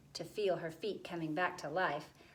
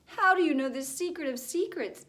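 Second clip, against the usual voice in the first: gargoyle voice; 8 semitones higher, 8 dB louder than usual. A narrator's reading. Gargoyle voice, high and loud.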